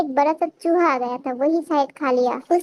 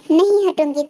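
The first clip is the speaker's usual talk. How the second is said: louder, planting her feet; defiant loud refusal; 5 dB louder than usual. Acted. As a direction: refuse to budge, loudly. Tae refuses to get off bike.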